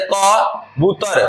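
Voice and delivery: कबूतर said slowly, syllable by syllable; drawn-out word. Shown as a demonstration. Teacher slowly sounding out कबूतर for spelling. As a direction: stretch out कबूतर so each sound is clear. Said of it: "आप क्या कहें".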